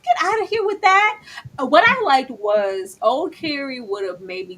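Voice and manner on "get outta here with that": higher, louder dismissive quip; loud, sassy "girl, bye" retort; sassy brush-off. Retold or imitated. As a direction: wave her off loudly with attitude. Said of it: "And I was like".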